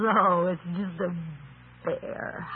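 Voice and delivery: trailing into a whisper on bear; fond, softly dismissive. Acted. Adam naming the bear.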